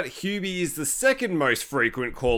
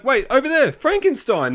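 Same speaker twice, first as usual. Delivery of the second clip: high, loud false warning; mock alarm; 8 semitones higher, 4 dB louder than usual. Hubie tricking the crowd to escape, mock alarmed shout. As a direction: call out a distraction, high and urgent.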